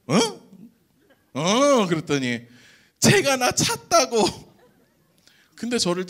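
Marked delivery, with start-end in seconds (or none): 0.1-1.9 loud, high puzzled "eh?"; bewildered reply to a confession in a foreign language; confused. Retold or imitated. Not understanding the girl. 3.0-4.5 high, loud, slow drawn-out; imitating the girl repeating herself; mock girl's line. Girl's quote, voiced.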